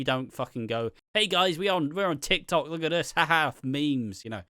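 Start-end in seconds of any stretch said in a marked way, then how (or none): 1.1-4.2 higher-pitched, over-keen social media pitch; mock eager hype. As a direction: put on a try-hard, trendy hello. Mocking soaps chasing TikTok trends.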